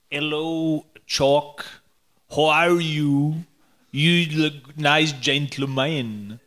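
slow, put-on accent that comes out New Zealand-like; odd foreign accent. Guest mimicking a text to Chuck, slow mock New Zealand accent. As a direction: botch the syllables slowly in a vague New Zealand accent. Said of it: "Was that an accent you were doing?".

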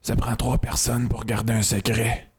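suave, smooth-voiced quote reading; voix doucereuse. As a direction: read it in a sweet, oily host voice. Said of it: "Dites dans la voix doucereuse". (voix doucereuse et onctueuse)

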